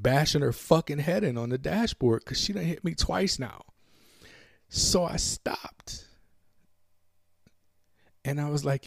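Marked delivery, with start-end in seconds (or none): 4.7-6.1 hushed. Real, not acted. Pause in tense story.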